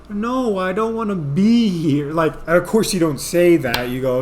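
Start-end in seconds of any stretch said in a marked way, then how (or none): 0.1-2.1 blurted truth. Retold or imitated. Blurting honest reply to employee.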